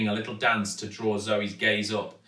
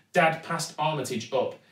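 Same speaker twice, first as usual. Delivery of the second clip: ordinary delivery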